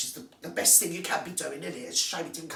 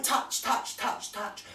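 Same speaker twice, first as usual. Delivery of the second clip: mocking whisper; much slower than usual. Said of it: "And she's going".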